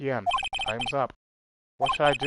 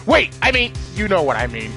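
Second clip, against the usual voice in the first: flustered correction; 4 semitones higher, 6 dB louder than usual. Acted. Catching his own slip.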